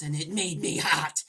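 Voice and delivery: hammed-up exclamation. Gamer reading a silly line from the game narration. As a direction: belt the line for laughs.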